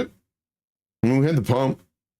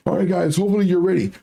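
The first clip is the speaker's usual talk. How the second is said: crypto bro; 6 semitones higher, faster than usual. Retold or imitated. Voicing pump group owner.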